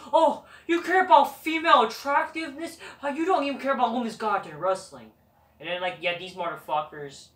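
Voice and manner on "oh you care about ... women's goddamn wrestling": mocking fans' voice. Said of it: "Smarky fans be like".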